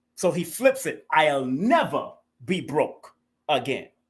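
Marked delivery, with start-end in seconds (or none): 1.1-3.9 never as the prominent word. Explaining the prominent word in a quoted line, stressing never. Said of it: "Never is that prominent word".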